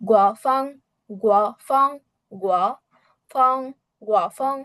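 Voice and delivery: গুয়া, ফাং with neither syllable going up and down; even tones. Shown as a demonstration. Teacher drills the word for windy, গুয়া, ফাং kept even. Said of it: "কোনো tone উঁচু নিচু না".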